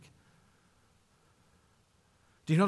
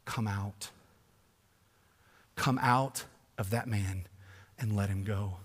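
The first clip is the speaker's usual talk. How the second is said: low, soft, slow authority; quiet power, no need to shout; hushed command; 5 semitones lower, 7 dB quieter than usual. Retold or imitated.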